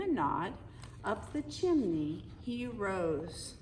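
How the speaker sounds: lilting read-aloud poem voice; storybook narration. Acted. Parent reading the Christmas poem to the kids, lilting storybook narration. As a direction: read the rhyme to the children like a bedtime story.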